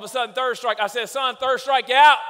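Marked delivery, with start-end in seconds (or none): 1.1-2.2 loud final verdict; dad snapping. Retold or imitated. A fed-up father snaps at his son, loud. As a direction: throw the kid out, loud.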